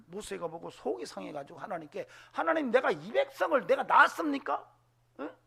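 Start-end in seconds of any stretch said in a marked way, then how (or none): 2.3-5.4 loud, much higher exasperated protest; defying God. Retold or imitated. Moses to God, loud exasperated protest. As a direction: fling the complaint at God. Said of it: "하나님께 덤벼요".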